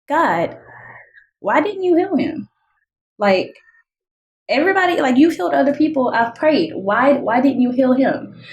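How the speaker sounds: a retold anguished question to God; broken plea to God. To God after Mike died, a high broken plea. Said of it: "And I was just so broken".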